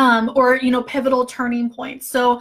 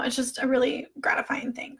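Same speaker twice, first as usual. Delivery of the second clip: whisper; 7 dB quieter than usual. Real, not acted. Reflecting on messages from followers.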